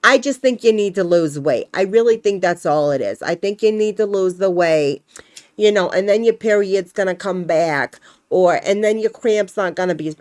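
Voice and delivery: put-on Fran Drescher accent. Doctor telling her to lose weight, Fran Drescher accent. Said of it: "I just like using that accent for it sometimes".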